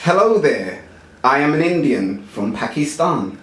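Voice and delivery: lightly voiced Indian accent; a hint of an Indian accent. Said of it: "One more Indian".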